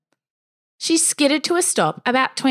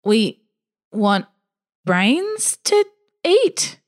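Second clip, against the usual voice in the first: unsure answer; much slower than usual. Acted. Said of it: "answered her question unsurely".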